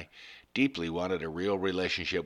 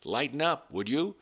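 higher and louder, barking at recruits; drill instructor yelling; 8 semitones higher, 3 dB louder than usual. Retold or imitated. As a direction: drill sergeant chewing out the plants. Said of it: "like a drill instructor swearing at his recruits".

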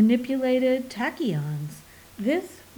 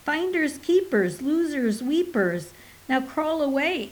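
mocking taunt; 5 semitones higher than usual. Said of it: "Portical growled".

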